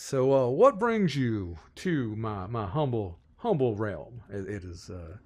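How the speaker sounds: lightly voiced folksy Southern gentleman, impressed; rambling, genteel Southern host; courtly Southern lord president. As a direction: welcome them with fussy Southern courtesy. Game master plays Samuel.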